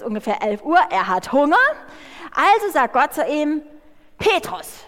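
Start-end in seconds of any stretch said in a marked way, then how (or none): 4.2-4.8 God calling Petrus, then a slow command. Acted. God tells hungry Petrus on the roof: slow solemn command.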